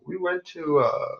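drab, dull delivery; deliberately boring. Shown as a demonstration. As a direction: sound as bored as possible. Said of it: "I'm trying to do more boring".

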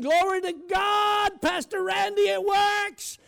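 high, loud, slow praise shout; joyful shouting. Retold or imitated. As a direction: shout it like church folk rejoicing at a fence. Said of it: "And they were saying".

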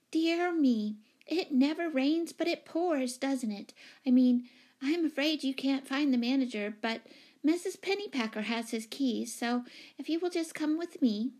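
high, fussy chatter; flustered lady tenant. Acted. Flustered tenant offering to lead the new owner, high-pitched. Miss Giddings flustered, after squeak.

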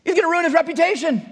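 high-pitched, incredulous outburst; scandalized critic. Acted. Acting out scandalized critics of Jesus.

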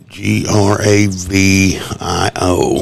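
slow, letter by letter spelling; sounding out words. Real, not acted. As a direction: spell it out slowly. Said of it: "You're reading this, aren't you?".

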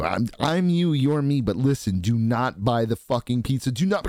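the future self begging not to buy; desperate future Greg. Retold or imitated. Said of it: "Greg from the future".

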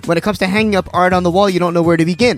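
loud, punchy radio ad; ad read. Acted. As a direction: sell it like a pitchman. Ad read for art site.

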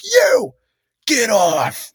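sharp high mock yell at one kid; single out the kid and bark it high; carny ordering a kid off the ride, mock yelled. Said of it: "he's like".

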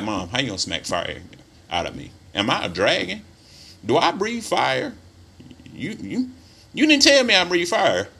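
put-on a kid baffled by his mom's threat; incredulous child. Child protesting to mom.

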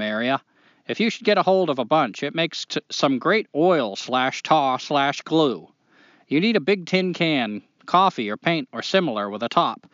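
put-on reading a letter in a Maine accent. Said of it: "do the whole thing in a Maine accent".

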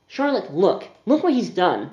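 showing her torn sleeve, outraged; upset complaint. Acted.

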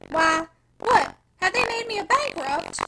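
loud, slow, outraged disbelief; vehement agitation. A narrator's reading. Father learning of his downfall with vehement agitation. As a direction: burst out, then drag out the question. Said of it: "he said with vehement agitation".

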